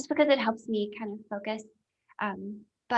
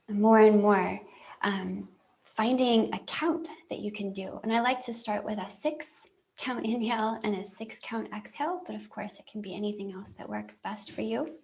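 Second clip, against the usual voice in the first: calm guide leaving very long silences; guided meditation; 3 dB quieter than usual. Real, not acted. Helping listeners feel grounded after breathing, calm guided meditation. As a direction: ease them into longer breaths, unhurried.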